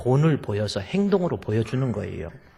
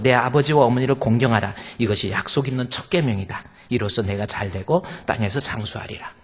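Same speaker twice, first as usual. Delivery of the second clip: scripture reading. Acted. Preacher reads the commandment to the congregation, solemn. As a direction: proclaim the commandment.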